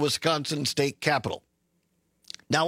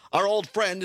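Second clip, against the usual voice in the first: mild sarcasm, pitched a bit higher; sarcastic; 4 semitones higher than usual. Real, not acted. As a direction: say it with tongue-in-cheek irony. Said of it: "I say that sarcastically".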